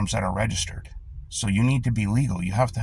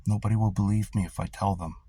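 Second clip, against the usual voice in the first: stunned reporter; 7 dB quieter than usual. Retold or imitated. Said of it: "The reporter's going".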